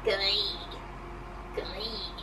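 low, drawn-out witch impression; soft, lightly witchy drawl. Shown as a demonstration. Practice pattern: witch voice.

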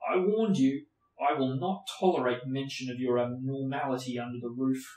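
a touch of a loud angry uncle; lightly voiced shouting uncle; furious uncle. Uncle shouting at Harry about magic, mildly voiced anger.

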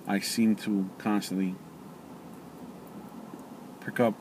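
words muffled by pipe; talking around a pipe. Real, not acted. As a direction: pipe stem in mouth. Seen 1: Hand holds pipe at his mouth, eyes closed; pipe clenched afterward.

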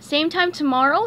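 put-on bright eager kid asking. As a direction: ask like you can't wait. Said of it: "he asked eagerly".

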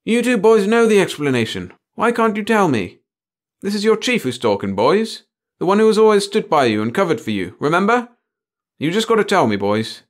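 very high, loud coaxing plea; wheedling. A narrator's reading. Chief coaxing his boys to tell him, wheedling. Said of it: "The chief began to wheedle".

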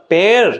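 পেয়ার stretched and leaned on; emphatic, lengthened পেয়ার; stressed syllable. Shown as a demonstration. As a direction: put the weight on পেয়ার, drawing it out. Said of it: "জোর দিতে হচ্ছে".

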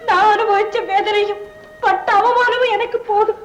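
tearful confession. Acted. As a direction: plead through tears, swelling into a cry.

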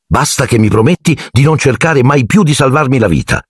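smiling. A narrator's reading. Harry asks Dobby never to save his life, smiling. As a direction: plead lightly with a smile. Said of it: "gli disse Harry sorridendo".

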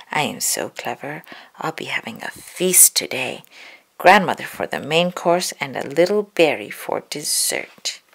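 wolf plotting his feast in secret; gloating wolf. Acted. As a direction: gloat under your breath.

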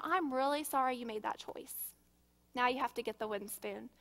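put-on even, calm correction of a child; calm parent voice. Shown as a demonstration. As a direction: keep your calm and say it. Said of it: "keep your calm and just tell 'em".

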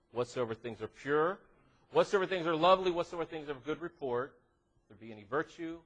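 measured list cadence, each phrase lifting at the end; scripture recitation. Acted. Preacher recites scripture to the congregation, measured recitation.

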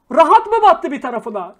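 loud, angry scolding; angry rant. Real, not acted. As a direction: tell them off hotly. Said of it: "böyle atarlar yaptığım zaman".

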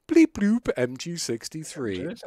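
slow, lightly voiced beeping droid; hint of a robot voice, slowed down; Star Wars robot voice. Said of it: "a robot from Star Wars".

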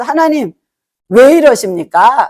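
a slow, wounded why aimed at heaven; hurt complaint to God. Retold or imitated. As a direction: ask God why, feeling let down. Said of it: "마음에 서운함이 슥 올라오기도".

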